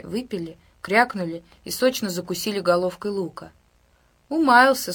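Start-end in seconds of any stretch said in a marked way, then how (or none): 4.3-4.9 amused. A narrator's reading. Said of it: "с усмешкой в голосе сказал директор".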